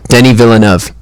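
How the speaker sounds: "Denny Villeneuve" said DEN-ee vil-uh-NUV; quoted name pronunciation. Retold or imitated. Co-host repeating how the actor says it, DEN-ee vil-uh-NUV for "Denny Villeneuve". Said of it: "That's how he says it".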